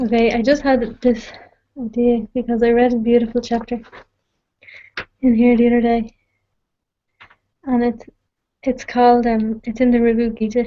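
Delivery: winded, breathless voice. Talking to a listener awake at 4 a.m. after running upstairs, out of breath. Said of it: "I'm out of breath after running upstairs".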